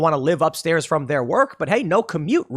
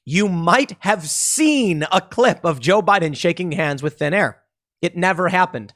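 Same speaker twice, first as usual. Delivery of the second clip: savoring it. Shown as a demonstration. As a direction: drag it out and savor every word. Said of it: "I really want to revel in this one".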